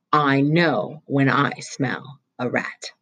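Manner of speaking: acid, suspicious interrogation; stern vice principal. Acted. Vice principal threatening Roy with truancy police, acidly.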